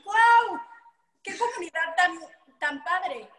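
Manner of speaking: high, loud amazement; amazed "wow". Retold or imitated. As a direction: gush over the community. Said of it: "que dices". (asombro emocionado, agudo y fuerte)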